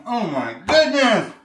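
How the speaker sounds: delighted exclamation. Real, not acted. Tasting the shrimp.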